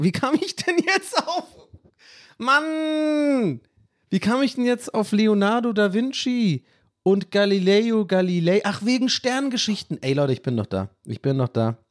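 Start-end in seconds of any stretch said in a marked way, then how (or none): 0.0-10.0 high-pitched frantic wail at his own lost thought; frantic falsetto scramble to remember; panicked searching. Real, not acted. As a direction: squeal in mock despair, voice shooting up. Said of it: "diesen panischen Versuche".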